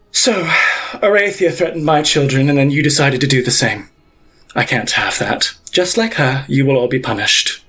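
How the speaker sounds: cold, measured verdict from a ruthless matriarch; menacing pontiff. Acted. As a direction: pass sentence without raising your voice. Pontiff pronounces sentence.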